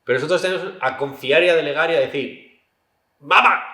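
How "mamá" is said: high loud call for mom. Retold or imitated. Child calling for his mother, loud and high.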